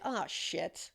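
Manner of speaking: dismayed oh shit. Shown as a demonstration. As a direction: let it sink, like a minor mishap. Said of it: "many different ways in which you would say that".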